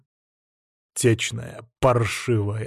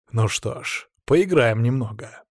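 plain reading voice

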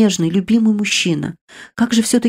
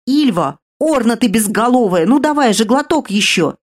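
frantic urging; 3 semitones higher than usual. Acted. Sister frantically makes her drink.

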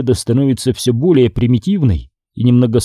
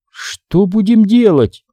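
slow, drawn-out higher voice; zombie wife; 8 semitones higher, slower than usual. A narrator's reading. Wife asks her husband what to do, slow zombie drawl. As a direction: stretch the words out, pitched up.

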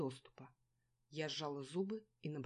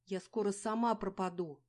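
loud cry, stress on сама; despairing shout; 4 semitones higher, 6 dB louder than usual. A narrator's reading. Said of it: "крикнула я".

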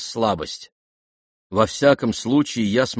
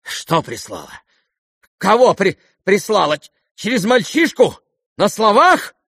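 high, loud stumbling questions; agitated exclaiming; 10 semitones higher, 6 dB louder than usual. Acted. Lizaveta quizzing the prince about the note, agitated. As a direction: fire questions in a fluster. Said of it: "воскликнула она вдруг опять".

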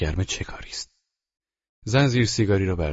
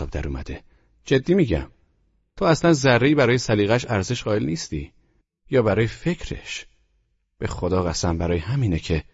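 agitated Arthur; 4 semitones higher than usual. Acted. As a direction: pour out the bitter complaints, heated. Arthur ranting on phone. (صدای برافروخته و عصبی آرتور پشت تلفن)

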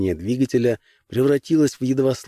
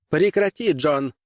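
mild snap; 5 semitones higher than usual. Acted. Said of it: "рявкнула комиссар".

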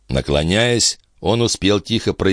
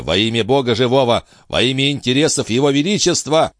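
raised, urgent appeal; pleading; 7 semitones higher than usual. A narrator's reading. Police chief begging the countess, raised and urgent. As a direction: implore her, pitch climbing.

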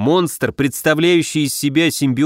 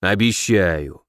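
low, slow, heavy vow; heavy, weighty vow; 7 semitones lower, slower than usual. Acted. The hero gives his solemn word to the monster, heavy and low. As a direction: drop each word like a boulder. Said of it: "падали, как тяжеловесные булыжники".

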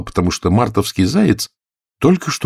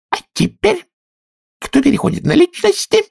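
very high, gloating squeak; triumphant Hatter. Acted. Hatter triumphing over Alice, high and gloating. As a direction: crow over a point won. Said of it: "с торжеством".

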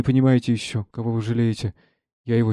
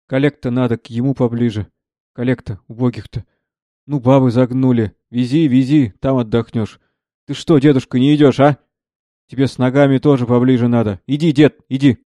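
bustling, louder calls, hurrying people along; fussy and worried; 6 dB louder than usual. Acted. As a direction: fuss over the cripples, herding them forward. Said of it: "суетливо и озабоченно". (суетливо и озабоченно)

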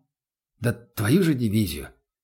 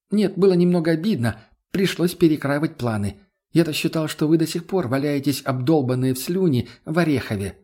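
put-on smug boy Tsar; 3 semitones higher than usual. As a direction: gloat over them like a spoiled kid king. (самодовольный царь, слегка выше)

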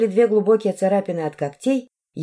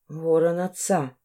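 ordinary delivery

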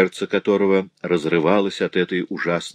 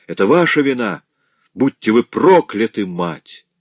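cursing outburst; 4 semitones higher, 6 dB louder than usual. Acted. Daughter curses her mother.

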